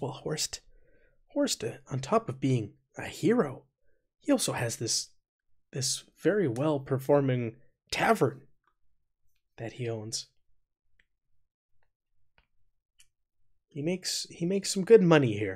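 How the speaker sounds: hushed, confiding tone. Telling a story, voicing a woman character, in a lowered tone. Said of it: "she lowers her tone as well".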